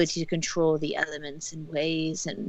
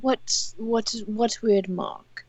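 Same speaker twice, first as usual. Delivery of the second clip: surprised; 4 semitones higher, much slower than usual. Acted. Alarmed NPC reaction.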